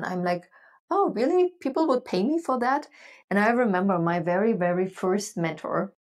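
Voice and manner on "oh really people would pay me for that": amazed, half-laughing at the idea of being paid; retold astonishment, eyebrows raised; surprised disbelief. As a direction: pitch leaps high on "Oh, really?", then settles somewhat. Retelling her own amazed reaction.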